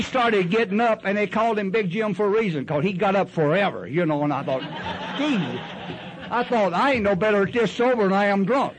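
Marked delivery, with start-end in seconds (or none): 5.2-8.7 higher laughing aside; laughing at himself, pitched up. Real, not acted. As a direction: chuckle through the memory. Laughing at his own thought.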